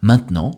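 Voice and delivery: "maintenant" as main-t'nant, T kept; silent E. Shown as a demonstration. Teacher gives learners a word to repeat, "maintenant" with silent E. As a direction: model "maintenant" in two syllables without the middle E. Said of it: "Le E de maintenant a complètement disparu".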